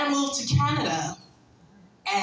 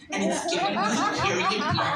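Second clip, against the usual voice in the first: laughing; 8 semitones higher, faster than usual. Retold or imitated. Laughing complaint.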